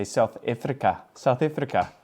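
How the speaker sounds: imitated South African accent. Shown as a demonstration. Vlogger showing how South Africans would say it, South African accent. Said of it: "I think they would say".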